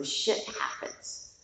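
"Shit happens" whispered softly under the breath; a hushed, conspiratorial aside of the same quote; whispered repeat. Shown as a demonstration. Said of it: "That's my quote of the Buddha".

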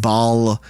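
Baal said like "ball"; Baal rhyming with "hall"; pronunciation. Shown as a demonstration. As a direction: say Baal as one syllable with an "aw" vowel. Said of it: "I believe it's actually pronounced".

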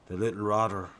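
put-on a touch of a posh English accent; lightly put-on English accent. A narrator's reading. Husband at the beach mildly mocking a crab in an English accent. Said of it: "in his best English accent".

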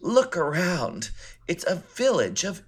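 drawn-out, high-swooping theatrical quote; hammed-up film line, pitch leaping up; Mink's movie line. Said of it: "when Mink says".

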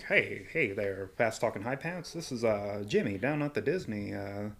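lightly voiced sleazy exec, hushed; leering wheezy old man. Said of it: "you're like".

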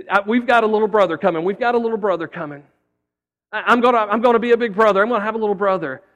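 put-on fast, eager kid's chatter; lightly voiced boy bursting with news; excited little boy. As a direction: rush it out like a thrilled kindergartner. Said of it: "this little boy was so excited".

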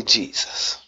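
a hushed, intimate whisper, no force at all; whispered name. Shown as a demonstration. Preacher showing the congregation how to call on Jesus, whispered. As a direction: breathe the name in a soft whisper. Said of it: "You don't have to yell it out".

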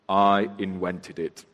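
slow, puffed-up boast; proud Mr Bumble. A narrator's reading. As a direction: say it swelling with pride. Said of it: "drew himself up with great pride and said".

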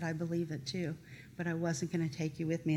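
soft, low reply; hushed, matter-of-fact admission; quiet retold confession. Sister answers the crying teller, low and quiet.

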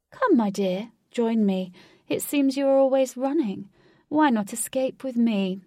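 loud, coaxing villain with showy swoops; theatrical villain. Acted. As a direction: lure them grandly, like a flamboyant villain. Villain entices the queen.

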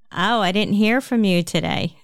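put-on light New Jersey accent on a complaint. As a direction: slip into a hint of New Jersey. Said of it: "I feel like my New Jersey accent came out with that one".

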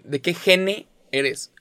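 put-on slow drawn-out fresa girl voice; mocking fresa girls. Mocking fresa girls asking about generation, slow fresa drawl. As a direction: stretch out "gene" like a fresa girl. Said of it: "las mismas morras que dicen".

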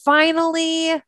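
mock-excited, lifting on "finally"; super excited. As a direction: play the thrill of finally getting there. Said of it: "start to feel just super excited".

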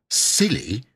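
very cross. Acted. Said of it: "very crossly indeed".

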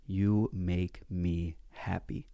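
slow and tender, mildly voiced old lady; tender farewell. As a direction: say it slowly, heartfelt. Lady's tender farewell at metro.

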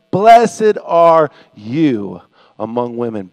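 slow, low, loud blessing; deep-pitched, drawn-out exclamation; loud proclamation. Acted. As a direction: proclaim it weightily, dropping away at the end. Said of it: "In a loud voice, she exclaimed".

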